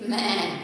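short imitated goat bleat. Shown as a demonstration. Teacher shows children what a goat says, light bleat. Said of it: "Goat says".

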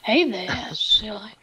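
lightly voiced creepy old man; drawn-out creepy greeting, put on for friends; Herbert impression. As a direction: play a mock-sinister creep. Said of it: "talk to us in a bit of a paedophile accent".

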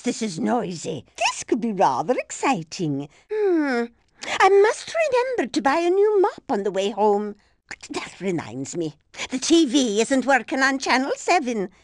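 lightly voiced elderly lady passenger, fussing and chirpy; a dotty granny rattling on mid-race, gently put on; chatty old lady. Old lady racer game barks.

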